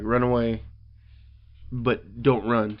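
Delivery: slow, measured "don't run"; slow advice. Retold or imitated. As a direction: drag the warning out. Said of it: "I thought that was a great line".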